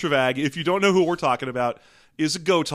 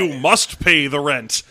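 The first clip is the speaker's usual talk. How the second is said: put-on slow, loud old-school villain; mustache twirling villain; 6 dB louder, slower than usual. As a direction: ham up a landlord villain. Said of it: "twirling a mustache".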